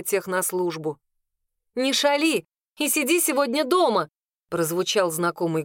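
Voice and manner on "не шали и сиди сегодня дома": put-on scolding young woman. A narrator's reading. Marion scolds someone inside.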